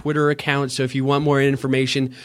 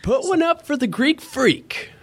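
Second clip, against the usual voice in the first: much higher, ringing play-by-play call; announcer catchphrase; 12 semitones higher than usual. Pretend. Pitching his Bucks catchphrase to the cohost, high announcer call. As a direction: sell the catchphrase like a stadium announcer. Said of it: "What should I do for the Bucks?".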